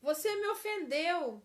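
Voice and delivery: loud slow blaming line; accusing. Shown as a demonstration. Teacher demos an accusing spouse, loud and slow. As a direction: lay the blame heavily. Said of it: "A outra frase de acusação".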